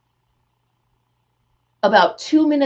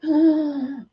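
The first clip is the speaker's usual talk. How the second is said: kids' mock gasp; 5 semitones higher than usual. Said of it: "They were like".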